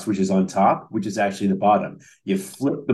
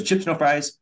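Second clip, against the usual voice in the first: SNL diner guy; 6 semitones higher than usual. Retold or imitated. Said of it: "he goes, he goes".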